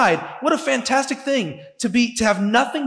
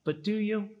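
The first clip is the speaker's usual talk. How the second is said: tempting Satan; 10 dB quieter than usual. Acted. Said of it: "Satan is the one who comes in and says".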